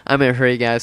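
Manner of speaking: breathless after rushing; winded, short on air; out of breath. Real, not acted. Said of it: "Sorry, I'm out of breath".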